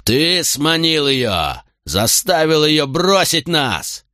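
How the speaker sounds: slow, high enraged shouting; furious yell. A narrator's reading. Drunk son attacking the man who took his mother, furious yell. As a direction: hurl the blame at him.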